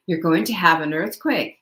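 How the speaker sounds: lightly imitated Irish brogue; grandmother's warning in a slight Irish lilt. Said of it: "in her little Irish brogue".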